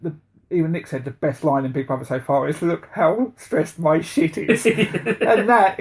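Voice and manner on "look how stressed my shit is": put-on American accent. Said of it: "in an American accent".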